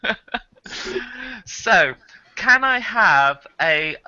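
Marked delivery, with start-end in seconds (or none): 0.0-0.2 loud, high hammed-up wail; playful over-acted regret; mock horrified GM. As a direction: cry out in mock dismay. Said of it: "With the G M going".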